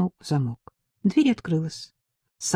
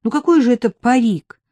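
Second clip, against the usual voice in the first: mocking question, higher and louder; mildly mocking, a bit louder; 5 semitones higher, 5 dB louder than usual. A narrator's reading. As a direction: scoff at the idea. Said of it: "спросила девушка насмешливо".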